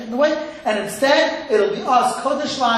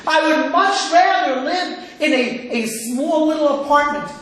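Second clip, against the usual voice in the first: wife retorting; 3 semitones higher than usual. Retold or imitated. Wife answering back to husband, emphatic mock retort. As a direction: insist as an acted-out hurt wife. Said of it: "So she says back".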